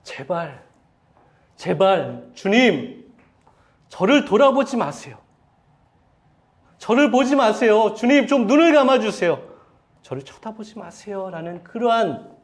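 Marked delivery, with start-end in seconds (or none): 0.0-11.3 louder, higher pleading to the Lord; desperate pleading cry. Retold or imitated. Peter begging Jesus not to look at him, pleading cry. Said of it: "속으로 이렇게 외쳤을 거예요".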